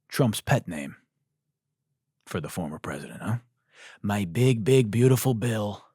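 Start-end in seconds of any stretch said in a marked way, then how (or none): 4.0-5.9 a barely changed, lightly voiced Trump; half-hearted Trump imitation; bad Trump impression. Comedian giving up on a lightly voiced Trump impression. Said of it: "It's a terrible Trump impression".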